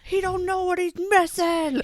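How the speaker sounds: put-on high, slow, sappy drunk-girl comfort; drunk girl consoling. A drunk girl consoling a stranger about a guy, high and sappy. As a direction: coo it like a tipsy bathroom friend.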